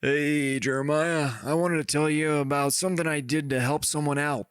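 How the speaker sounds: lightly put-on reading voice, slightly lifted; a hint of a character reading a letter; imagined letter writer. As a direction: read a listener's letter in a mildly assumed voice. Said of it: "I'll, I'll read it in the voice".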